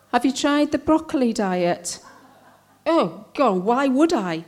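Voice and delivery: measured comic poem with pointed pauses; poem recital. Acted. Poet addressing well-meaning acquaintances about cancer, wry recital. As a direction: recite it with lively, swooping intonation.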